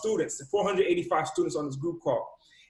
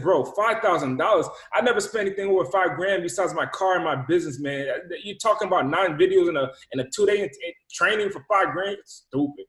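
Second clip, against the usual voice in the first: retold indignant objection, punching key words; mildly heated, disbelieving pushback; going hard at him. Customer balking at the salesman's five-grand training price, going hard at him. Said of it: "I went hard at him".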